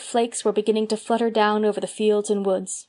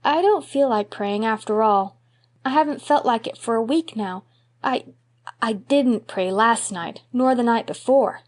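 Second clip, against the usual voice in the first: lightly voiced, halting boy; a boy stalling, unsure; hesitant little boy. Davy hesitant confession.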